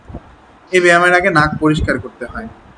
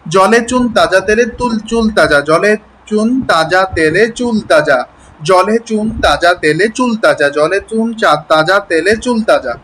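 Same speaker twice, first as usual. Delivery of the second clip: slow tongue-twister; slower than usual. Shown as a demonstration. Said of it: "বারবার বলবেন".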